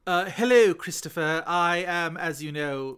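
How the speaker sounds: lightly hammed-up British greeting; put-on British accent. Co-host greets the host as a Victorian poet, mock British accent. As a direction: play at being very British. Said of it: "very British and always British".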